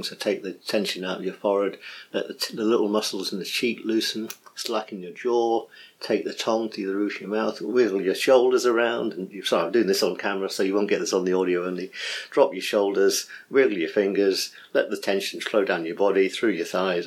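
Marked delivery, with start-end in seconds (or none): 0.0-9.1 walk them through loosening each muscle; guided meditation. Shown as a demonstration. Teacher demos body relaxation, lightly meditative voice. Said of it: "body untension thing". 12.3-17.1 hurried guided relaxation, lightly voiced; quick meditation demo. Shown as a demonstration. Teacher demos relaxation quickly on camera, mild guiding voice. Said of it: "I'm doing this very, very quickly".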